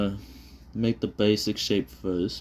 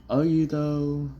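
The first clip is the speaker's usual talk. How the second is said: slower, drawn-out doubting jab without the crack; skeptical retort; 8 semitones higher, 3 dB louder, slower than usual. Acted. Retaking the jab at a joking relative, slow and doubtful. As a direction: let the doubt hang, raised and slow. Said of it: "But it's like".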